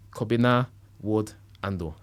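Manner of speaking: name said with a Ghanaian accent. Shown as a demonstration. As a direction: Kobina Wood Ando, Ghanaian style. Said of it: "I'm saying it with a Ghanaian accent".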